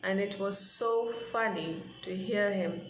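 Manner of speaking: reading the passage aloud, gently paced; measured read-aloud narration; story reading. A narrator's reading. Teacher reads story passage aloud.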